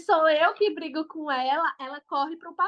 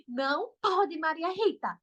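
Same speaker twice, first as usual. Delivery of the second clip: firm tone; 2 semitones higher than usual. Shown as a demonstration. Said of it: "falar com um tom mais bravo".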